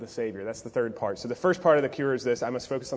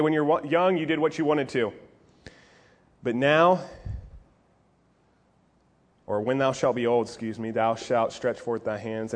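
normal talking voice

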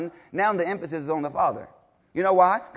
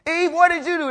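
God calling out; 9 semitones higher than usual. Retold or imitated. Preacher voicing God confronting Adam, lightly voiced. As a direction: demand an answer, lightly voiced.

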